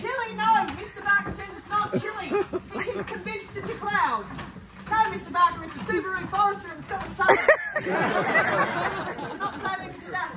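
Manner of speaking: loud, projected theatrical captain, rallying the crew; boisterous captain cheering on his crew; stage convict captain. Acted. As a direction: play it big for the back row, a jolly ship's captain. Actor playing convict captain on stage.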